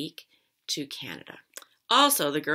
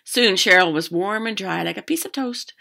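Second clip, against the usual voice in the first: lively read-aloud, louder than chat; story narration; 2 semitones higher, 13 dB louder than usual. A narrator's reading. Teacher reading a fishing story to children, animated narration. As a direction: read a picture book out to children.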